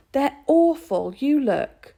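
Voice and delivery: high, loud slow plea; pleading. A narrator's reading. Boy pushing sums at his mother, high loud plea. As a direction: beg her to look.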